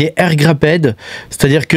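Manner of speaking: English term in a French accent. Real, not acted. YouTuber explaining a wallet term to viewers, French-accented English. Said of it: "alors avec mon super accent".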